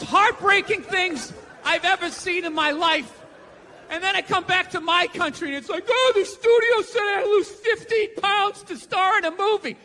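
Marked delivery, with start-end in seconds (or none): 5.9-9.8 mock whiny complaint. Mocking a whining actor.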